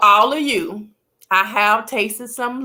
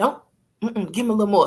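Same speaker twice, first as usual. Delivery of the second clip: whisper, much faster. Storyteller acts out asking a woman for more to drink, retelling a whisper. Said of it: "I'm whispering".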